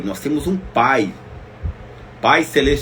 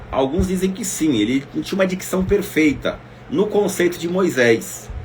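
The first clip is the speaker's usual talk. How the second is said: usual speaking voice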